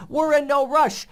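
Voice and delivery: P=A; no rush stressed. Retold or imitated. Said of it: "But the president says".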